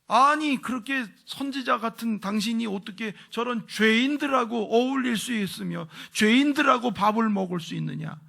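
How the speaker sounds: loud, high-pitched sneering challenge; sarcastic jeering. Acted. Critics jeering at Jesus for eating with sinners, sarcastic. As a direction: throw it out as an indignant, mocking accusation. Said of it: "막 빈정대는 거예요".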